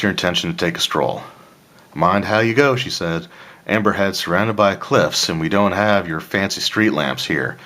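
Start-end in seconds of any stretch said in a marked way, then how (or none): 1.9-2.8 lightly voiced Texas accent; a hint of Texas in the speech. Innkeeper warns a guest going for a stroll, light Texas accent. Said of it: "like, a Texas accent". 3.7-7.6 lightly voiced Texas accent. Innkeeper warns of cliffs and dark streets, light Texas accent. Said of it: "like, a Texas accent".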